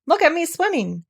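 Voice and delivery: high, bubbling squeak; proud squeaky Roo. Acted. Roo drifting to the pole, boasting squeakily. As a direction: boast while half underwater. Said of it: "still bubbling proudly".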